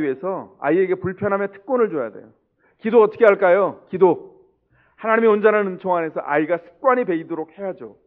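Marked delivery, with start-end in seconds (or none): none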